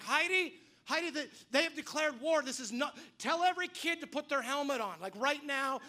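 high, loud urgent call to Heidi; urgent shout. Retold or imitated. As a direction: warn her like war has started.

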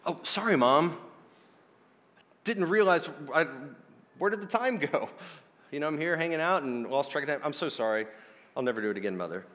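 half-hearted, hammed-up sorry; mock apology. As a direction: play a kid making excuses to mom. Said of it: "Notice he doesn't apologize".

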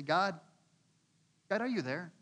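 building from doubt to desperate protest; a sufferer crying out to God; anguished prayer. Retold or imitated. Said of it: "How many times do we pray and say".

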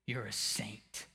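quiet, slowed repeat; soft murmur. Acted. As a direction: let it fall softly, slowly. Repeated softly.

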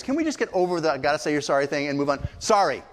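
hurried complaint capped by a curt sorry; mock impatient token apology; pro forma. Shown as a demonstration. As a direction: rush through it just to move on. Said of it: "there's the pro forma".

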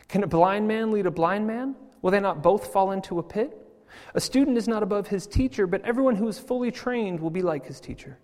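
measured, solemn Bible reading; scripture reading. Acted. Preacher reading scripture to the congregation, solemn and measured. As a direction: read the Lord's words out to the flock.

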